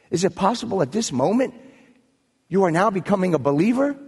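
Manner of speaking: lightly voiced God, questioning incredulously; a touch of lofty disbelief, questions swinging upward; voice from heaven. God questioning the atheist who denied him, lightly voiced heavenly voice. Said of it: "a voice came down".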